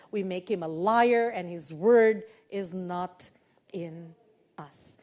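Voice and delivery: solemn Bible reading to the congregation; scripture reading. Acted. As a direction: read the verses aloud like a preacher at the pulpit. Reads scripture aloud to congregation.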